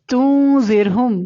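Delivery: تنذرہم slow, n held in the nose; ikhfa. Shown as a demonstration. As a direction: draw out the hidden n of تنذرہم. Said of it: "نون پر اخفا ہوگا". (تنذرہم میں نون ناک میں چھپا کر)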